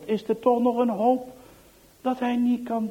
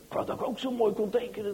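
soft, quick inner thought; thinking to himself; 6 dB quieter, faster than usual. Acted. Johan wishing to himself while watching, soft and quick. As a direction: say it as a private wish under the breath. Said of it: "denkt Johan".

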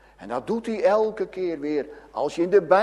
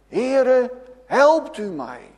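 a crying plea, louder and higher; calling out for help; 6 semitones higher, 4 dB louder, slower than usual. Retold or imitated. Preacher voicing sinking Peter, a pleading loud cry. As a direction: cry out like a drowning man calling the Lord. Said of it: "Als zo'n schaap roept hij".

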